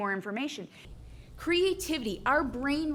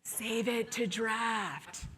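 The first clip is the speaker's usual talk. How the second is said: grudging agreement; much slower than usual. Retold or imitated. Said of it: "You're like".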